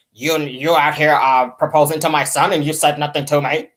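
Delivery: hard, deep smoker's voice impression; Mama Jones. Host imitating mother confronting son's girlfriend, hard deep voice. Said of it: "with that deep-ass voice".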